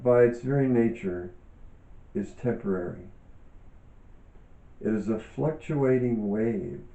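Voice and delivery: calm, measured reading aloud with pauses; book reading. Acted. Author reading her yoga book to listeners, calm and measured. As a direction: read each phrase thoughtfully, like a teacher sharing a text.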